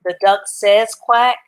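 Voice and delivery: careful dictating voice; slow dictation. Shown as a demonstration. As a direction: say it slowly so they can write it. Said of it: "I would either say".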